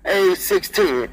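slow, drawn-out call; loud call. Shown as a demonstration. Trucker on CB back to talking loud, slow. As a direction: drag it out like a big man on the mic. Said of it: "I talk loud 'cause I'm a fat man".

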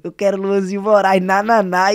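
loud imitation of eager radio callers; ouvintes pedindo música. Imitates listeners calling the radio. (imitando ouvintes insistentes, em voz alta)

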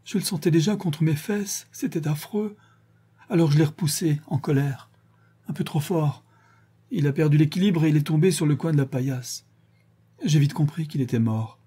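a hint of tears rising in the voice. Marie finishes her confession to Madeleine, understated tears. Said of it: "termina Marie, en larmes, avec de gros spasmes".

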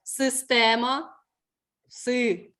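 «Система» slow and rising, then «Си» alone; clear И sound. Shown as a demonstration. Teacher spells for pupil, slow clear И in «Система».

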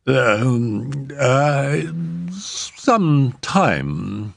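a hint of a confused estate agent; flustered agent. A narrator's reading. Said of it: "he remarked blandly".

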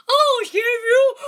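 high loud shout. Acted. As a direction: yell it at the kid. Bully shouts a demand.

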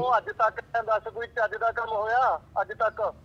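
loud irritated telling-off; angry scolding. Acted. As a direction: snap at her over the phone. Husband scolding wife on phone.

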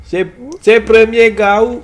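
slow, drawn-out mock African accent. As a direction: stretch the song hook in an imitated African accent. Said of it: "Ben, l'accent africain". (accent africain imité, lent et traînant)

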